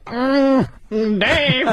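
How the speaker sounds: high mock white-guy voice; goofy white friend calling out, hammed up; Dave Chappelle. Comic imitating a rival's white friend character, goofy white voice. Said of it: "And then he does a white guy voice".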